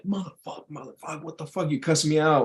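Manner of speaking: half-hearted imitation of an angry driver; mock cussing out. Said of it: "you start cussing him out".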